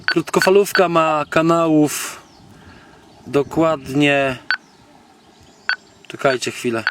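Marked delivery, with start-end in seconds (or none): none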